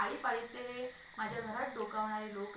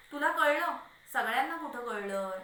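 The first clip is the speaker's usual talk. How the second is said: louder, rising challenge; annoyed challenge; 3 semitones higher, 6 dB louder than usual. Acted. Husband arguing with his wife, annoyed challenge. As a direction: throw the question at her.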